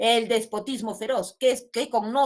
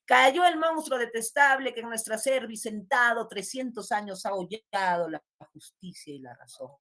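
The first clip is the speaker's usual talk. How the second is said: poem recital; 2 semitones higher than usual. Acted. Teacher reading the third stanza to class, declaimed recital. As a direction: recite it grandly, easing down toward the end.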